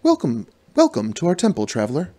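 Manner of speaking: fixed priestess voice, welcoming; warm accented priestess. Acted. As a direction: greet the traveler warmly as the priestess. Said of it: "she says warmly from her accent".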